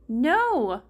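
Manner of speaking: hammed-up wail, pitch swooping up and down; mock wail. Playing doomed victim to his friends, mock wailing. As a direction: wail it as a put-on death cry. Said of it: "Sora wailed".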